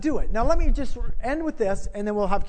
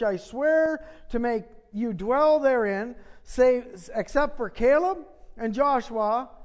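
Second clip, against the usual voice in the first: scripture reading; 4 dB quieter than usual. Acted. Reads scripture aloud.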